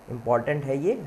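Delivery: ordinary talk, nothing marked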